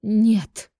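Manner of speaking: high, loud cry of refusal; distraught yell. A narrator's reading. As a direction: shout it in despair. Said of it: "заорала Минякина в голос и разрыдалась". (отчаянно выкрикивая)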